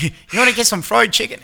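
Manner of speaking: put-on high-pitched, light stab at a Southern accent; attempted Southern accent. Imagining the Turtles from Atlanta, high mock Southern accent. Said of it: "I'm trying to do a Southern accent".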